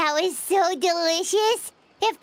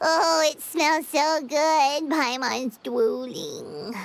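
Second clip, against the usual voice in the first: savoring; 3 semitones lower, much slower than usual. Acted. Smelling the barbecue.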